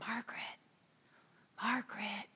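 soft, breathy whisper of her name. Retold or imitated. Therapist whispering to the sobbing Margaret, hushed. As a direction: murmur her name gently, almost no voice. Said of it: "the therapist was whispering".

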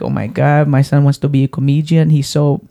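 lightly voiced Hispanic-accented mother, dismayed; mom's put-on accent. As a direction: imitate a Hispanic-accented mom, slowing into the insult. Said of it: "my mom doesn't have an accent".

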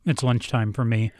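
talking while chewing a sandwich; eating mid-sentence; mouth full. Real, not acted. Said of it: "I'm eating a sandwich as we're doing this".

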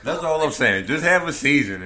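loud laughing catchphrase. Real, not acted. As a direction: laugh while shouting it out. Laughing, repeating catchphrase loudly.

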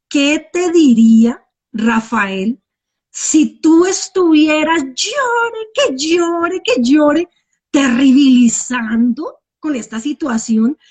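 slow, pleading sister questioning her; sister's scolding. Retold or imitated. Sister asks Ana why she keeps crying, slow and pleading. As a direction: draw out the sister's words, reasoning with her. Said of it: "y me dice".

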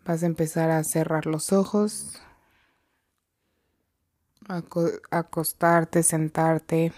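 measured meditation guide with long pauses; guided meditation. Real, not acted. Guide leading listeners to breathe and come to the present, unhurried meditation voice. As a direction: lead them gently into the breath, leaving long silences.

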